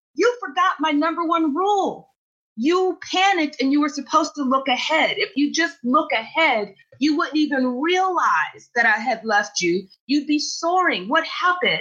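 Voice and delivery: put-on Brooklyn accent. Retelling what a man from Brooklyn said to him, imitating a Brooklyn accent. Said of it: "he's from brooklyn so of course he's got the accent".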